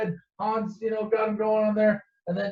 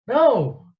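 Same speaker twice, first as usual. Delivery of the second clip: louder, higher mock refusal; firm refusal; 6 semitones higher, 7 dB louder than usual. Han refusing Luke's rescue, emphatic. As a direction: shut it down in one loud word.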